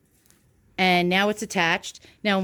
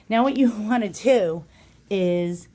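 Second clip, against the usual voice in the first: breathless from the effort; out of breath from the work. Real, not acted. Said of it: "I'm getting out of breath from this already".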